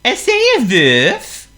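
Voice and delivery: loud, slow call across. Acted. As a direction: call out to Wolf. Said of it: "called out Honk".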